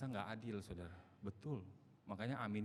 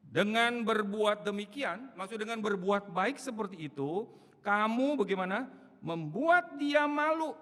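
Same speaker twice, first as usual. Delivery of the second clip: much louder, higher fiery preaching; preaching at full force; 9 semitones higher, 9 dB louder than usual. Acted. Preacher urging the church, loud and fiery. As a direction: drive the point home to the congregation.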